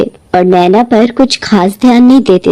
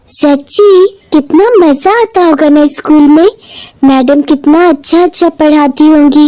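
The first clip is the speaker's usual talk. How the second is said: put-on excited girl; 4 semitones higher than usual. Girl excited about school.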